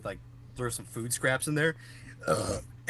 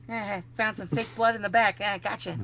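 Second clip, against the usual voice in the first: smug prankster dad; 8 semitones higher than usual. Retold or imitated. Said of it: "he goes".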